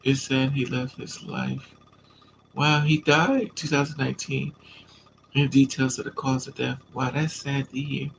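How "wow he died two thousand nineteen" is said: ordinary talk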